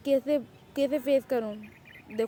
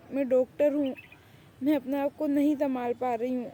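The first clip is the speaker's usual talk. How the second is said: mild teary voice, stumbling and pleading; tearful pleading; 2 semitones higher than usual. Acted. Woman confiding to her doctor friend she cannot let him go, mildly tearful. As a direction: close to tears but holding on. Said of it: "یہ جمینا کیوں رو رہی ہے؟".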